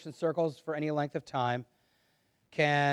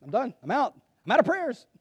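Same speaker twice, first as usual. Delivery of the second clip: exasperated giving up; 9 semitones higher, faster than usual. Retold or imitated. Tapped out of a long prayer, exasperated and climbing. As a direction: voice climbing higher with each phrase, mock exasperation. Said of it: "I was like".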